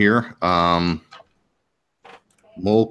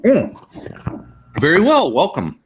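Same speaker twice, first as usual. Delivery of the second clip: put-on old man voice; 10 semitones higher than usual. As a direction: play the old guildmaster. Old guildmaster speaks.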